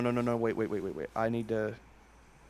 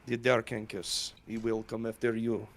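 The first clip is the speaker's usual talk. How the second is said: put-on Slavic accent; 7 dB quieter than usual. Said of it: "My Slavic accent was better".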